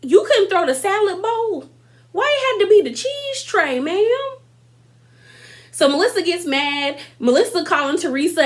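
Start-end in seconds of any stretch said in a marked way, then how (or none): 0.0-4.4 mock indignation. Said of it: "And I was just like".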